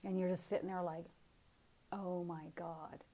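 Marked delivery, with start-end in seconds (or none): 1.9-3.0 soft, slow breath of wonder; hushed acted-out amazement; awestruck whisper. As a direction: whisper it slowly, overwhelmed with awe. Acts out awestruck reaction.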